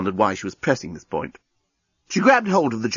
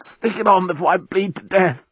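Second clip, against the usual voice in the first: journalist voice; 7 semitones higher than usual. A narrator's reading.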